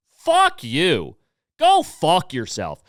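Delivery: heated anger. Real, not acted. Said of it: "I got a little heated on that one".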